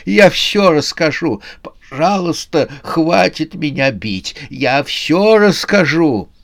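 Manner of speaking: high, pleading cries; yelling. A narrator's reading. Beaten old man promises to tell all, yelling. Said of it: "заорал старик".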